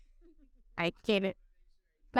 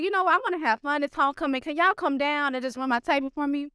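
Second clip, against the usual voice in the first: high, bright pitch, pleading excitement; mock eager request; retold excited ask; 6 semitones higher than usual. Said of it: "So I was like".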